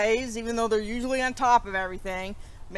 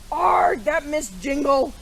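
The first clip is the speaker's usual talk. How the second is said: louder, higher frustrated cry; angry shout; 3 semitones higher, 4 dB louder, slower than usual. Acted. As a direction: blurt it out in a fury at Miss Jingle. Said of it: "shouted Mister Snorty".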